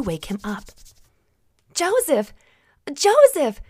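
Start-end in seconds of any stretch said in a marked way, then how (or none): 1.7-3.6 high, loud cries of his name; excited yell. Acted. Mary wakes Joseph, yelling in excitement. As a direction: shout to wake him, thrilled. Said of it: "she yelled in great excitement".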